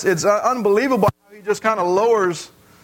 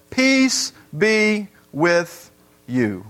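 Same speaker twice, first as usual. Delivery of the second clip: voice of Jesus; much slower than usual. Acted. Jesus greets disciples, quoted slowly.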